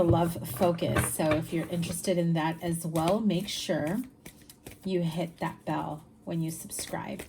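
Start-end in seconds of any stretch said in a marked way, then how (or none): 4.8-7.2 soft unvoiced whisper for the subscribe reminder. Reminding viewers to hit the bell, whispered. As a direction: drop into a whisper like sharing a tip.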